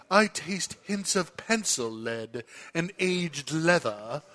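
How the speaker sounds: slow, pompous wine critic; snobby critic voice. Retold or imitated. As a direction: read it like a pretentious magazine reviewer. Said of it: "when you read these ridiculous magazines".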